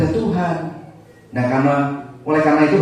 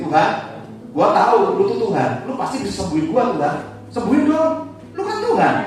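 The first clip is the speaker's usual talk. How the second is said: cheeky, pushy tone climbing much higher; mock cocky demand; 3 semitones higher, faster than usual. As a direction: demand it like a spoiled brat, half laughing. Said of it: "Dia nggak bilang gini".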